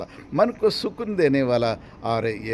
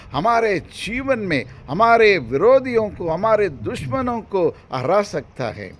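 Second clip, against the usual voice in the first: emphatic, rolling sermon delivery; fervent preaching; 6 semitones higher, 5 dB louder than usual. Acted. Preacher assuring believers their enemies will be defeated, fervent preaching. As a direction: drive each phrase home to the congregation.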